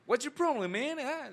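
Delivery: high street-style American English; street English accent. Retold or imitated. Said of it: "bien calle".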